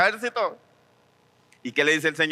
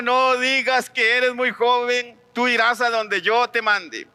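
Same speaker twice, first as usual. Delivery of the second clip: slow, raised commanding voice of God; voice of the Lord; 5 semitones higher, slower than usual. Retold or imitated. The Lord sending a young prophet, slow commanding voice. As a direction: proclaim it slowly as the Lord commanding. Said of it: "Pero el Señor me dijo".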